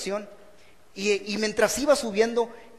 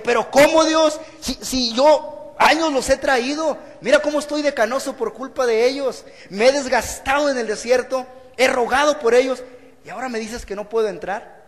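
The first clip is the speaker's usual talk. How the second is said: higher, louder exasperated protest to God; indignant complaint; 4 semitones higher, 3 dB louder than usual. Acted. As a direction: let the frustration burst out at God. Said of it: "se hubiera enojado". (Moisés indignado le reclama a Dios, más alto y fuerte)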